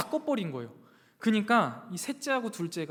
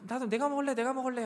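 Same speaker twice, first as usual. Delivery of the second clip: lightly voiced kid, pitched up; a hint of a pleading little child, higher; imitated clamouring child; 6 semitones higher, faster than usual. Younger kids begging dad for the chocolate, lightly mimicked in a higher voice.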